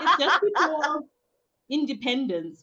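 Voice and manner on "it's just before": said through a laugh. Real, not acted. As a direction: giggle the words out. Laughs after host's teasing remark.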